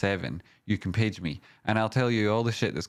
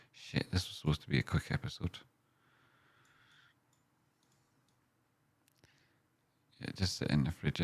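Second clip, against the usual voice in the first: calling from far away; 4 semitones lower, 8 dB quieter, faster than usual. Real, not acted. Walked away to move the fridge.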